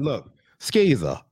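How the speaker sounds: skeezer said slowly like a dictionary entry; slow, defining tone. Shown as a demonstration. Defining the word for a friend, slow and deliberate. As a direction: spell out skeezer like a teacher. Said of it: "skeezer meaning".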